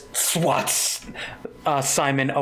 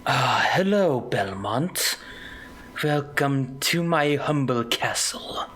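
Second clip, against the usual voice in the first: booming warrior king. Acted. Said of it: "a big booming yet regal voice go".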